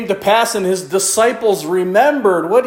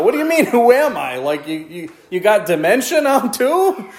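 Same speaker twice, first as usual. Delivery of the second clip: indignant son; 3 semitones higher than usual. Acted. Esau indignant at father.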